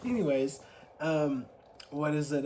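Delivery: slight lisp, tongue numb from ice; lisp from cold tongue. Real, not acted. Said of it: "my tongue is cold and it sounds like I have a lisp".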